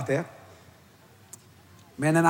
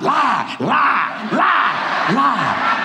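higher, louder insistent chant of lie; inner voice urging; 5 semitones higher, 3 dB louder, much slower than usual. Retold or imitated. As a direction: urge yourself to lie, over and over. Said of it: "my mind".

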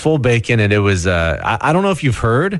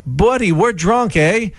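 much higher, slower mock rural Canadian accent; local drunk buddy; 9 semitones higher, slower than usual. Host voices drunk Buddy in a slow, high mock rural Canadian accent. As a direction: stretch it out like a tipsy rural Canadian pal. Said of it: "Buddy says".

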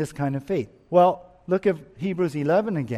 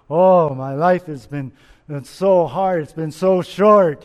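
louder, groaning complaint about a hard life; complaining lament; 7 dB louder than usual. Retold or imitated. Old Jacob complaining to Pharaoh, loud weary lament. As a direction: whine it out like an old man weary of his years. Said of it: "This is a whole different tone".

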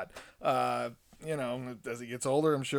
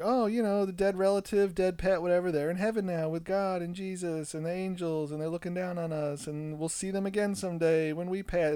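higher, sing-song reassuring tone; lightly mocking religious comfort; 5 semitones higher than usual. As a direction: parody the sweet heaven story. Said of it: "offers is like".

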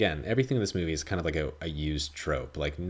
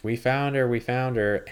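higher and louder, eager cry; excited villagers; 6 semitones higher, 4 dB louder than usual. Retold or imitated. Villagers shouting that they've finally found Mary, excited. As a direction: call it out like you just caught her. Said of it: "And they were like".

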